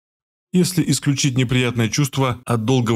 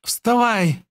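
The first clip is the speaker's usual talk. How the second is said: much higher sharp yell with a rough edge; unwomanly shout; 11 semitones higher than usual. A narrator's reading. Girl's voice turning rough, shouting at him to get up. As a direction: bark the order to wake him. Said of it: "крикнула Захария совсем уже не по-женски".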